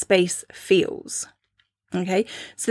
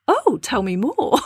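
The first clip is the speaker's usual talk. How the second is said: amused intrigue; 5 semitones higher than usual. Retold or imitated. Her intrigued reply, laughing.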